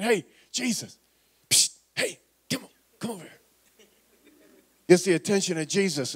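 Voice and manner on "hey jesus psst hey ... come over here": hushed, half-whispered beckon; secretive mama whisper. Retold or imitated. Mother sneaking Jesus aside, whispering. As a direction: pull him aside in a secret hush. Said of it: "I can just kinda picture her saying".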